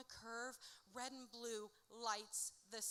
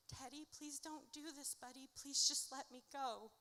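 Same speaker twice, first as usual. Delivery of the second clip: higher, more desperate plea; pleading; 3 semitones higher than usual. Retold or imitated. Pinned by drunk Teddy, begging him higher to let go. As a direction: beg him a little higher and tighter. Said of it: "I'm begging and I'm pleading".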